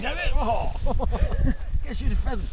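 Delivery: surprised. Real, not acted. Sudden exclamation, laughing.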